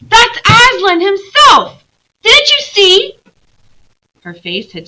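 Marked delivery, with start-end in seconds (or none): 0.0-3.2 high, loud, slow with wonder; awed and eager. Acted. Lucy insisting to her siblings, high, slow and loud. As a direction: make them believe, breathless with awe. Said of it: "said Lucy".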